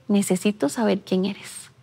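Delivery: soft, near-breathless inner question; hushed plea. Retold or imitated. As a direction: barely voice it, shaken by a chill. Chilled inner plea after mystery.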